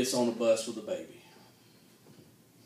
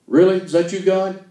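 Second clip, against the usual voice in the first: amazed; 6 semitones higher, 9 dB louder than usual. Acted. Amazed at hearing God.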